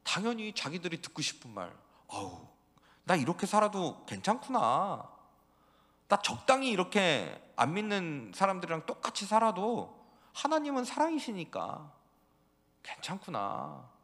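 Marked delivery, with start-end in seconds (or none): 2.1-13.9 relieved sinner. Acted. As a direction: sigh with comfortable relief. People relieved by lies.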